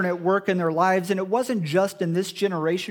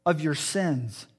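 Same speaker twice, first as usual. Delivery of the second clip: gentle and sincere. Shown as a demonstration. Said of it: "No, he says".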